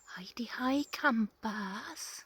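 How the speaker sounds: a weak imitation of a Welsh accent, called out high and loud; Ruth Madoc Welsh greeting. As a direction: greet the campers like a Welsh holiday-camp host, with only a faint Welsh accent. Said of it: "I can't do a good Welsh accent like Ruth Maddock".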